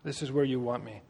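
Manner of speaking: soft, low murmur of awe; hushed, understated wonder; humbled. Retold or imitated. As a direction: say it quietly, humbly to God. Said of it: "It's so humbling to be like".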